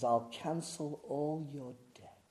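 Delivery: soft and slow; hushed, subdued offer. Acted. Preacher voicing Jesus's offer after the bank's, hushed delivery. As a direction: say it quietly, letting each word sit.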